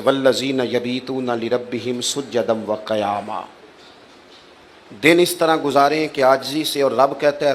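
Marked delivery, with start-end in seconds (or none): 0.0-3.4 slow, soft chanted recitation; Quran recitation. Acted. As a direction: recite it slowly like a verse.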